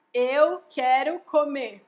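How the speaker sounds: slow, deliberate model sentence; full sentence spelled out. Shown as a demonstration. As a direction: say each word slowly and completely. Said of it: "ela não fala assim".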